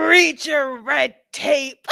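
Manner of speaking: giggling through the words; laughing. Real, not acted. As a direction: laugh while quoting her. Host laughing, repeats her line.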